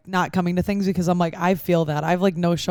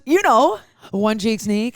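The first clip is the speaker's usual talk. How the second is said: lightly imitated tipsy girl, pitched up at first; a hint of a tipsy girl explaining herself; 3 semitones higher, 3 dB louder, much slower than usual. Tipsy woman explaining her catchphrase, lightly imitated. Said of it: "like, a little tipsy girl".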